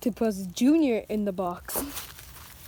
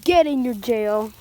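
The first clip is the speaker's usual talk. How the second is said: stern order; 6 dB louder than usual. Pretend. Ordering prisoner toy into jail.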